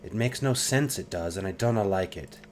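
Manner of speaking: tiefling rogue, gruff Scottish lilt, defensive; brusque Scots girl, prickly; Anna, Scottish lilt. Acted. Voices Anna.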